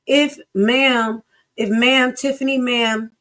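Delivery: trying hard to sound respectful to Tiffany; forced politeness. Real, not acted. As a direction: force yourself to be polite to her. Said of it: "I'm trying to be respectful".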